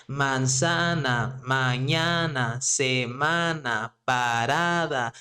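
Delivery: Manzana, mañana, semana, parada with a lengthened next-to-last syllable; stress on second-to-last syllable. Shown as a demonstration. Teacher recaps the words for learners, stretched next-to-last syllable stress. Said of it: "The stress naturally is going to be".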